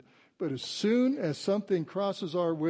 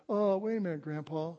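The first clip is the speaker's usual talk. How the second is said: lightly imitated Southern granddaughter, pitched up at first; little girl's Southern accent; 2 semitones higher than usual. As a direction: stall grandpa in a mock Southern child voice. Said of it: "that Southern accent like Skylar does".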